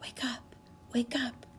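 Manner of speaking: soft hushed wake up; gentle wake-up call. Pretend. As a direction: coax the bug awake quietly. Waking the ladybug softly.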